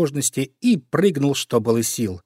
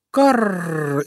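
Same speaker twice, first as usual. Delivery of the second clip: higher, startled caw; a sudden scared caw; frightened crow caw; 6 semitones higher than usual. Acted. Crow caws in fright, hearing of her nest, startled caw. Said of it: "испуганно закричала ворона".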